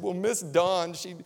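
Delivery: put-on a touch of childlike worry; upset little girl. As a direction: imitate a kid reluctantly telling on someone. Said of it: "the little girl was so upset".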